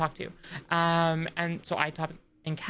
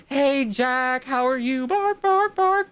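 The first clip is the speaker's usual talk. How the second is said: high, loud, playful squeal into barks; excited greeting; 6 semitones higher, 6 dB louder, slower than usual. Pretend. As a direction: greet them like an excited puppy.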